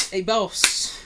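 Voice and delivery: high, loud, badly done character voice; Pink Guy. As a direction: punch out a terrible character impression. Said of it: "terrible pink guy impersonation".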